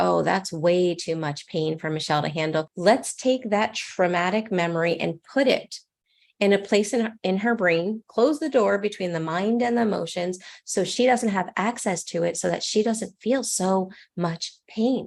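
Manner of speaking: ordinary delivery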